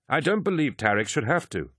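high-pitched, indignant interjection; cutting in. A narrator's reading. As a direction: cut in to object. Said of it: "Abaddon cut in".

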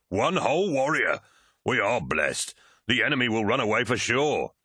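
lightly voiced captain sneering at his visitor; mocking warrior captain. A narrator's reading. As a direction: scoff at the single reinforcement.

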